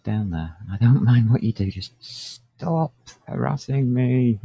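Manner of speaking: wrestling a cat while talking; strained, holding back a squirming cat; holding down a pet. Real, not acted. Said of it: "Help, I'm struggling with a cat".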